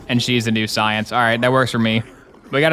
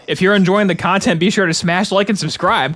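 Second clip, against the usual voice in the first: a touch of hammed-up streamer plug; mock YouTuber pitch; 6 semitones higher than usual. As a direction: lightly parody a YouTuber asking for likes. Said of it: "A call to action".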